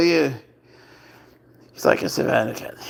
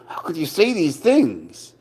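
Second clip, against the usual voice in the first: mock offended; 4 semitones higher, slower than usual. Mock scolding of meowing cat.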